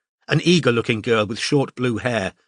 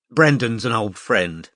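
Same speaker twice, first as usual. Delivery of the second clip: fondly. Acted. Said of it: "she added fondly".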